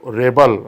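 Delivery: रेबल stressed on the first syllable, REB-el; noun stress. Shown as a demonstration. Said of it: "noun म्हणून त्याचा उच्चार होतो".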